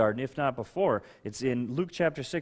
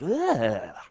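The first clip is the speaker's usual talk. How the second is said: long, drawn-out groan of distaste; mock groan of revulsion; disgusted ugh; 6 dB louder than usual. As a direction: recoil with a slow "ugh". Disgusted reaction to harsh words.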